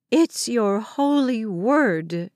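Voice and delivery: slow, ringing proclamation; proclaiming. Acted. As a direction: declare each word slowly. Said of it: "Grandma Lucy proclaimed".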